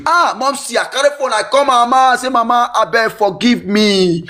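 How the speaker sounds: high-pitched plea for forgiveness; retold pleading. Child phoning mother to beg forgiveness, pleading. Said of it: "I beg my mom".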